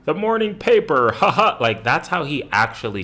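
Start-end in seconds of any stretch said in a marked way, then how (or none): 0.1-1.6 higher, put-on prim white-guy voice; white guy comedian voice. Mocking the announcer's voice as an old comedian's white guy. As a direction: ham up the stiff suburban dad. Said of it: "black comedians would be like".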